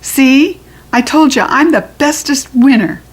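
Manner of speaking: put-on high, smug kid boast; gloating little girl. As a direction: rub it in proudly. Bragging child quote.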